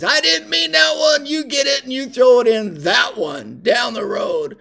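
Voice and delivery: drill sergeant yell. Retold or imitated. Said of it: "And he says".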